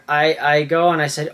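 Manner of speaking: ordinary talk, nothing marked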